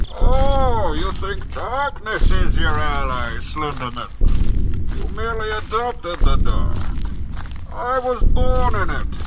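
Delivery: lightly voiced Bane, menacing villain playing a horror game; a hint of Bane's masked menace; Bane impression. Gamer voicing Bane while wandering the woods, lightly menacing. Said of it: "Calm down, Bane".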